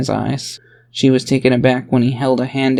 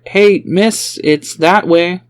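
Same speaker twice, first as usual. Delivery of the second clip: called out across the street, higher; a stranger calls after her to point the way, calling out; 6 semitones higher, 4 dB louder, much slower than usual. Acted.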